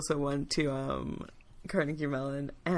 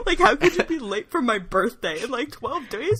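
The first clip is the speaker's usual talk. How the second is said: higher, affronted whine; indignant Jesus; 7 semitones higher, 4 dB louder than usual. Acted. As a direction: keep up the offended Jesus. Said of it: "Jesus was really pissed".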